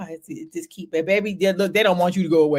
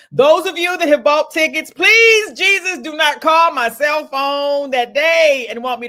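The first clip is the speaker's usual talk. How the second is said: pleading shout; 6 semitones higher, 8 dB louder, slower than usual. Real, not acted. Pleading with ticket buyers.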